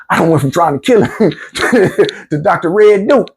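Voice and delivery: laughing through the words. Real, not acted. Telling the story of saving his opponent, laughing. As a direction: chuckle at the irony.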